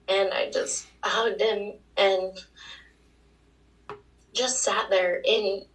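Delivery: voice breaking with emotion. Real, not acted. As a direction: fight back tears while remembering him. Tearful memory of dying mentor.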